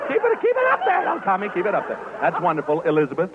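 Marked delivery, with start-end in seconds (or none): 0.1-1.1 put-on falsetto echo of the boy's high voice. Shown as a demonstration. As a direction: coach him up in a squeaky high pitch. Echoes the requested high voice.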